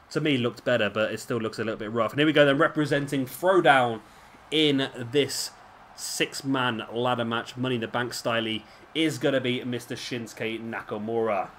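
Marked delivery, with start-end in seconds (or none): 2.1-11.5 lightly hammed-up ring announcer intro; understated announcer build-up. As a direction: present the wrestler like an arena announcer.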